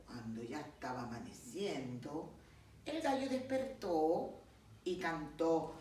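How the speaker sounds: narración pausada y expresiva de cuento; cuento infantil. Acted. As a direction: cuenta el cuento a los pequeños, animando las frases. (narración de cuento para niños)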